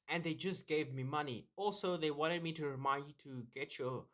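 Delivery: mock sponsor read. Host thanking Pfizer for the brand deal, mock sponsor read. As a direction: drop into a quiet, low-key ad read.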